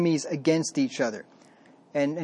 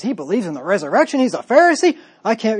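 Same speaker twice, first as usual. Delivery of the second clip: rising, much louder and higher outburst; angry Sadducee; 5 semitones higher, 5 dB louder than usual. Retold or imitated. The Sadducee outraged at the Pharisees, rising mock outburst. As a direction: blow up in disbelief. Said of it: "the Sadducee says".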